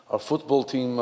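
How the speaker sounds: ordinary delivery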